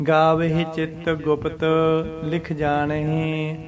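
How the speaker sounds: slow, measured scripture recitation; slow devotional reading. Shown as a demonstration. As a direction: chant the line slowly and carefully. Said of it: "ਇਸ ਤਰ੍ਹਾਂ".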